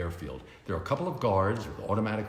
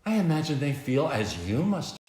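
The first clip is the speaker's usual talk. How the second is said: lightly higher, teasing lady's voice; flirty socialite; 7 semitones higher, slower than usual. A narrator's reading. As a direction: coo at him like a seductive heiress. Veronica flirting with Bruce.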